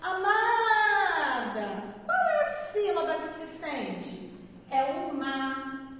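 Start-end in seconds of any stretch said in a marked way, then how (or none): 0.0-1.9 Amada called out long, stretching the MA; loud, drawn-out call to someone. Shown as a demonstration. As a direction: hail someone with a sung-out, lengthened syllable. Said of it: "como se eu estivesse chamando por alguém".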